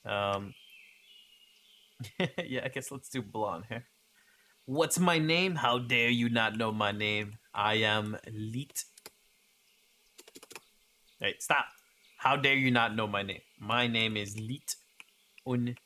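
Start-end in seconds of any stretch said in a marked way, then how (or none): 4.7-15.8 hammed-up offended declaration; theatrical mock affront; mock indignation. Mock outrage over own name.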